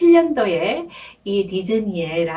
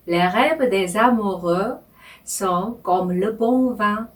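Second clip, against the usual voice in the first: the French line read slowly in two phrases; Les rêves des amoureux, then sont comme le bon vin, unhurried; slow phrased reading; much slower than usual. Shown as a demonstration. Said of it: "천천히 제가 읽으면서".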